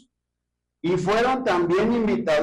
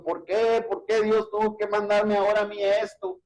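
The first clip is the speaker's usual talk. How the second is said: mock complaining; 6 semitones higher than usual. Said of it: "quejándonos y llorando y diciendo".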